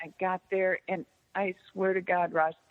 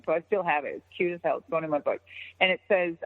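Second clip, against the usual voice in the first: normal talking voice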